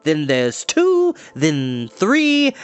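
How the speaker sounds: chatty, sing-song sorceress; cheery enchantress. Acted. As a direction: coax the children like a kindly witch. Enchantress voice held.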